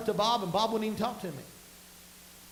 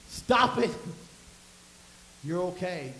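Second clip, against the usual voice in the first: loud, sharp order to yourself; self-talk said as a forceful command; firm self-command; 3 semitones lower, 4 dB louder, slower than usual. Acted. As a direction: order the panic to stop, loudly. Commanding oneself during panic.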